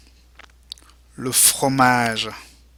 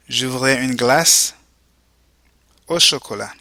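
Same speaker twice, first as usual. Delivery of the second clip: split model phrase. Shown as a demonstration. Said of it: "go ahead and repeat".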